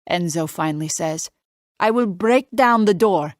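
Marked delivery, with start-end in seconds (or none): 1.8-3.3 put-on light Italian accent. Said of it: "His Italian accent isn't even that thick".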